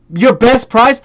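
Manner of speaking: mildly mocking repeat; scornful echo. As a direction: echo the buyer's question with scorn. Echoing the buyer's question.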